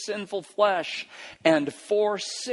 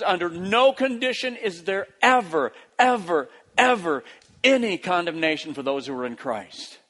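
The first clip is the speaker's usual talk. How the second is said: firm, insistent declaration allowing no exception; emphatic, strong; 2 semitones higher than usual. Acted. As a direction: hammer each NO and EVER as its own punch. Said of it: "that's emphatic. It's strong".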